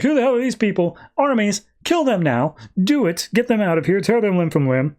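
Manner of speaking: lightly voiced demon king barking orders in rhyme; hint of a rhyming demon commanding his army; a mock demon voice ordering the kill. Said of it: "he rhymes it".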